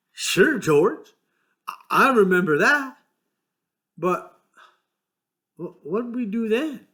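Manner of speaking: put-on gleeful childlike recall; delighted Lenny. A narrator's reading.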